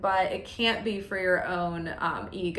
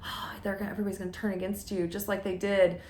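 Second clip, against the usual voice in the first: hushed, softer tempting voice; devil's voice; 5 dB quieter, faster than usual. Acted. The devil feeding worries to the speaker, hushed. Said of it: "I have the devil's voice going".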